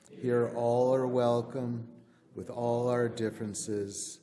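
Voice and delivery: formal church recitation; covenant recitation. Acted. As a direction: lead the congregation through the covenant.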